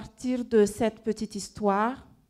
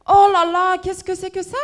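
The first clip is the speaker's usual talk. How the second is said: alarmed surprise; 6 semitones higher, 9 dB louder than usual. Acted. Awakened by a strange noise.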